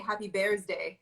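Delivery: lightly imitated Farsi accent, BIRTHDAY becomes "Bears Day"; mother's Farsi accent. Daughter quotes her mother, lightly Farsi-accented birthday wish. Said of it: "as my mother would say".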